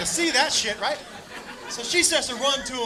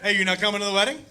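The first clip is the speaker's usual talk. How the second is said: friend's dad; 4 semitones lower, faster than usual. Retold or imitated. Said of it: "And his dad goes".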